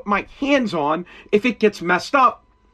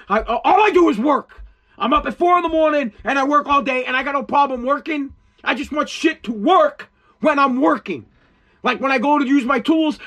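higher, ranting with bursts of shouting; real heated yelling rant; angry rant; 4 semitones higher than usual. Real, not acted. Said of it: "I'm mad right now and I'm yelling at you".

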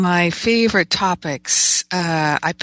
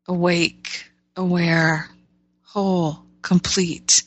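prayer voice. Acted. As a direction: pray gently over the listeners. Leads a group prayer.

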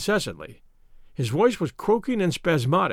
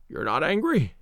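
gasping for breath. A narrator's reading. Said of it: "gasping for breath".

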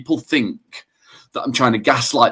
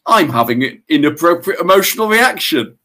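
that voice; 5 semitones higher than usual. Retold or imitated. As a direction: spell it out like a detached therapist. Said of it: "please tell me you use that voice".

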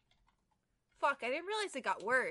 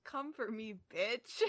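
read the line; 4 semitones lower, 6 dB quieter than usual. Acted. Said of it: "This is your last line".

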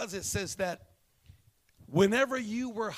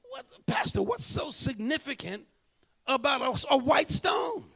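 high, loud, baffled cry of a church member; incredulous mock shout; 7 semitones higher, 5 dB louder than usual. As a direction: shout your disbelief at the pastor. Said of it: "And you say".

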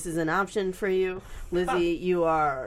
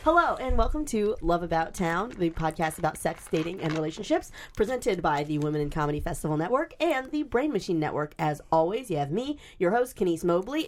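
podcast host intro; 3 semitones lower than usual. Shown as a demonstration. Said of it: "more in line with Rohan, so I'm gonna put my hands on the table".

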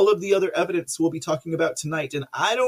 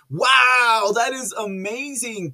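loud, higher wow; excited wow; 7 semitones higher, 5 dB louder, slower than usual. Real, not acted. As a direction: burst out in amazement. Excited at radio hotline.

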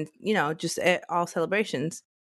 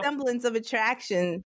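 higher, scoffing disbelief; hammed-up scoff at an obvious lie; mock incredulous; 4 semitones higher than usual. Teasing the man about his girlfriend, mock disbelief. Same mocking reply continued.

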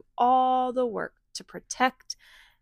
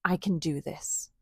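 quiet resolve; 3 dB quieter than usual. Acted. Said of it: "took a deep breath".

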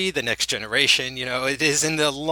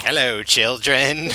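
slow, louder spooky host greeting; Vincent Price; 5 dB louder, slower than usual. Retold or imitated. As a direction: drag out a horror-host welcome. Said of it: "And he's like".

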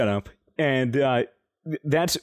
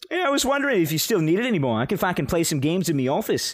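imitating receptionist; 3 semitones higher, faster than usual. Imitating receptionist asking for computer.

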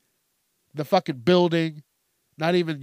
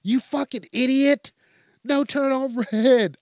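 higher, a bit louder exasperated shout; retold angry yell; 8 semitones higher, 3 dB louder than usual. Yelling at the honking driver about the red light, exasperated. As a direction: snap at the driver like he's an idiot. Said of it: "And I'm like".

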